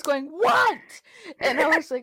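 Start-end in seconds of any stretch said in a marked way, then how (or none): 0.3-0.8 high-pitched mock snapped answer; irritated yell imitation. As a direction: imitate answering a call in exasperation, much higher.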